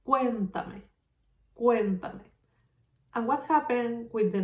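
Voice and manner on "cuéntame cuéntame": "cuéntame" with the weight on "cuén"; stress on third-last syllable. Shown as a demonstration. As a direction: hit "cuén" in "cuéntame", then let it fall. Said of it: "In the third syllable".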